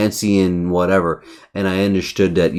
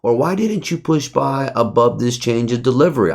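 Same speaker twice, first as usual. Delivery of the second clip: imitating a viewer; 5 semitones higher than usual. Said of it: "You're gonna say".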